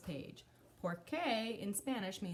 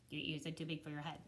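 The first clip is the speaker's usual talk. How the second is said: echo; 4 semitones lower, 5 dB quieter, faster than usual. Acted. Repeated as echo.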